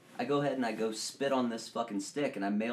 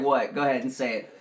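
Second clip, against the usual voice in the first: imitating friend; 3 semitones higher, 8 dB louder than usual. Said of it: "You were like".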